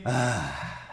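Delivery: long breathy exhaled "ah"; deep breath sigh. Shown as a demonstration. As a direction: let the full breath out on a sigh. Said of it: "Respiração profunda e inspirem".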